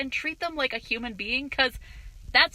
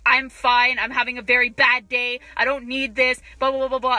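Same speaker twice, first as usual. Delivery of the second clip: mock irritable complaint, louder; retold bitching; 6 dB louder than usual. Customer brushing off an offer of help, mock testy. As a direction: imitate a testy customer griping loudly. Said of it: "starts, like, bitching".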